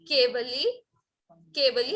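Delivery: केवली with a short final i, rising; short final vowel. Shown as a demonstration. Teacher correcting vowel length for class, careful pronunciation. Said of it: "इसमें ली बड़ा नहीं है".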